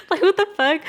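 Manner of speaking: high, loud retold what-the-fuck; loud mock outrage. Neighbor finding strangers in his house, loud mock outrage. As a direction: fling it out, hammed-up shock.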